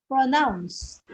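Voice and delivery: proNOUNCE, stress on NOUNCE, very slow; second-syllable stress. Shown as a demonstration. Teacher quizzing students, stressing pronounce on NOUNCE. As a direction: say pronounce very slowly with the weight on NOUNCE. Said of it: "stress is in the second syllable".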